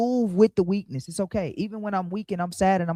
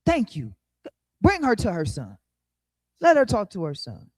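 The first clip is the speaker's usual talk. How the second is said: relieved king. Retold or imitated. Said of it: "The king like".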